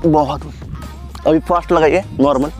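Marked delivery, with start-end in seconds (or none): none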